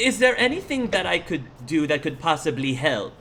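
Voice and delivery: lightly voiced eager old lady; old woman. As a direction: offer help with a touch of an old woman. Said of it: "the woman says".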